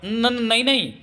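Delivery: hasty high-pitched stammering no; flustered no. A narrator's reading. Sister-in-law hastily refusing his offer, flustered. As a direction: blurt it out, caught off guard. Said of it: "नानिया हड़बड़ा कर बोली".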